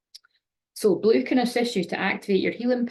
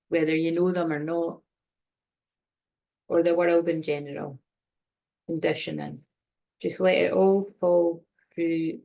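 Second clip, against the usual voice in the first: guided meditation. Acted. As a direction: gently talk them through breathing. Leads a short guided energy clearing.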